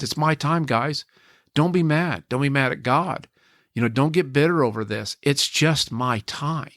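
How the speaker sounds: fighting tears while quoting her last words; choked up. Retold or imitated. Husband quotes dying wife, emotional.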